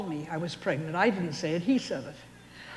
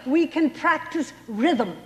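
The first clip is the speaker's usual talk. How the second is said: proposing loudly; 6 semitones higher, 3 dB louder, slower than usual. Retold or imitated. Wife proposing to husband.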